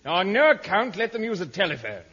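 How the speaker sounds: hammed-up urgent hailing; calling instructions. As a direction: call the warning over a long distance. Instructing distant agent.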